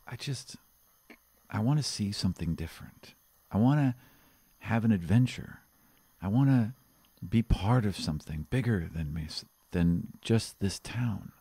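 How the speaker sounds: a restless guard dreaming of adventure, understated; lightly voiced young guard. Guard confiding his wish to his friend, wistful.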